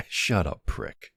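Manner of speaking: laugh, then a playful brush-off; amused retort. Acted. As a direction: toss it back through a chuckle. Laughs off a friend's teasing.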